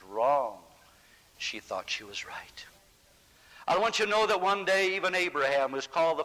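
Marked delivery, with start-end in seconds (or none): 1.4-2.7 soft unvoiced whisper, almost secret. Shown as a demonstration. Preacher hushing the congregation, a whispered aside. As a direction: breathe it like a confidence.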